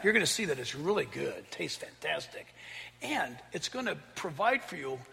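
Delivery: a hushed, coaxing serpent persuading Eve; sly tempter. Retold or imitated. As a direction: lure her in quietly like a sweet-talking serpent.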